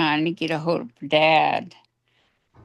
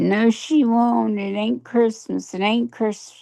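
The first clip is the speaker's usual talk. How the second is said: mock screamed protest; 6 semitones higher than usual. Aunt retelling Jenny's fit over Christmas, mild mock scream. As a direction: retell her screaming refusal without really screaming. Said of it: "Started screaming, threw a fit".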